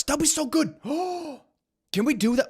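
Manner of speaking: high gushing squeal of delight; light up at the idea; excited squeal. Real, not acted. Streamer squealing over special duck bread, excited.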